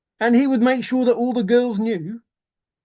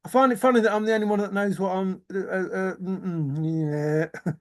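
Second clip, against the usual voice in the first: imitating Forrest; 3 dB quieter than usual. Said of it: "That was where he was going".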